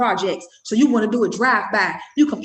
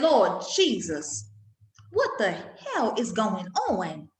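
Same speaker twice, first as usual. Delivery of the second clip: stunned prayer; 2 semitones lower, 4 dB quieter, much slower than usual. Retold or imitated. Mother reacting to bullet holes.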